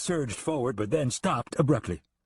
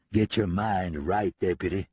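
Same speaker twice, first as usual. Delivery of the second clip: demanding; 3 semitones lower than usual. Acted. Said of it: "Frisco demanded".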